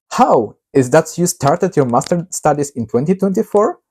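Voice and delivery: usual speaking voice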